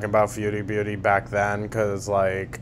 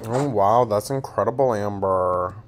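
sarcastic praise. Real, not acted. Reactor praises streamer's broccoli trick, sarcastic. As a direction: feign amazement at a trivial tip.

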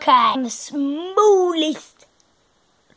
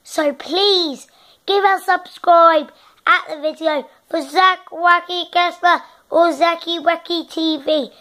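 put-on posh English sign-off; posh English accent; 2 semitones higher than usual. Asking viewers to subscribe, posh English accent. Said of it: "posh English".

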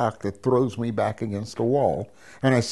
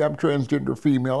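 higher-pitched, urgent blurted confession; 4 semitones higher, faster than usual. Retold or imitated. Patient coming out to the doctor, blurted out. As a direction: blurt it out before nerve fails. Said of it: "I blurted it out right then and there".

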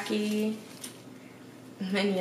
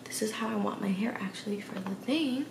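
whispered aside; 2 semitones higher, 5 dB quieter than usual. Real, not acted. Aside while fixing hair.

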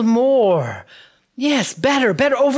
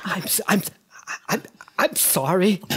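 quiet stammered apology; 5 semitones lower, 7 dB quieter, faster than usual. Acted.

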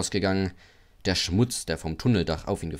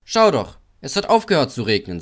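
coaxing; 5 semitones higher, 6 dB louder than usual. A narrator's reading. Männer reden auf Henry ein.

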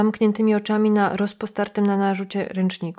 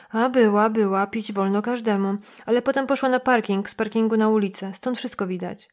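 nosy motel clerk complaining, slightly raised; suspicious receptionist. Acted. Receptionist insists. (lekko zagrany zrzędliwy recepcjonista)

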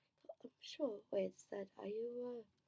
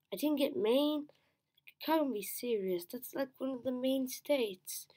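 surprised; 5 semitones higher, 5 dB louder than usual. Real, not acted. Missed an easy state.

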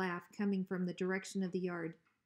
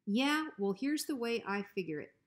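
a hint of sly menace; hint at what you want, coolly; lightly voiced bully dog; 3 semitones higher than usual. Bruiser slyly asking Hank for his porch.

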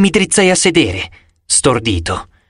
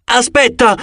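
higher, urgent shout; 9 semitones higher than usual. A narrator's reading. Zoe shouts after the running giant, urgent. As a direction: call after the fleeing giant. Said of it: "gridò Zoe".

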